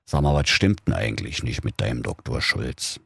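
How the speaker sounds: a low, confiding king; lightly voiced murmuring king. King confides in Flunky about his secretary, low. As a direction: lean in and grumble about the dog. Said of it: "raunte der König".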